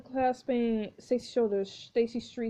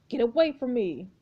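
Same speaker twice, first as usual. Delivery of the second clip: scream; 4 dB louder than usual. Acted. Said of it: "screaming in Jane's face".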